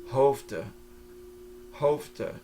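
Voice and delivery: Hoofden with the F meant as a V, final N dropped. Shown as a demonstration. Teacher models a Dutch spelling quirk, F like V. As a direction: say Hoofden ending in a schwa, no N. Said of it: "the F sounds like a V".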